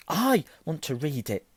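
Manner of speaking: high, indignant insistence; furious. A narrator's reading. Boy demands his own letter, furiously. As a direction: insist hotly on your right. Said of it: "said Harry furiously".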